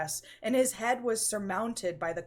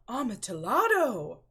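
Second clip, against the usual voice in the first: louder, higher cry of the wine's name; eager exclamation; 4 semitones higher, 7 dB louder than usual. Acted. Fortunato seizing on the rare wine, eager loud cry. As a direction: pounce on the word with greed.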